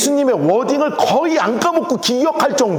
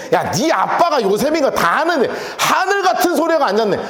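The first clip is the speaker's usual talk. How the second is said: scornful, whining mock complaint; full-on sarcasm. Townspeople who know his father, openly sarcastic. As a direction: pour on the scorn. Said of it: "빈정이 있는 대로 빈정되는 거예요".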